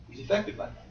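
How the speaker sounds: breathy whisper on affected. Shown as a demonstration. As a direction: drop to a whisper to stress it.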